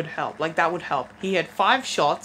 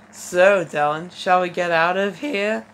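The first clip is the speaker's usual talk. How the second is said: hammed-up flirting with a loud, drawn "so"; flirtatious; 4 dB louder than usual. Shown as a demonstration. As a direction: draw out the invitation suggestively. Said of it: "I have to say that flirtatiously now".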